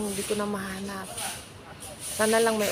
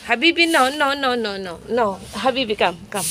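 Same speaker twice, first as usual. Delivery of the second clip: calling the cats; 2 semitones higher, 6 dB louder than usual. Real, not acted. Shooing then calling a cat.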